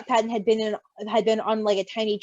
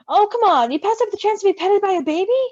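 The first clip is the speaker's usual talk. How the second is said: playful coaxing; 8 semitones higher, 5 dB louder than usual. Acted. Roman coaxing Logan.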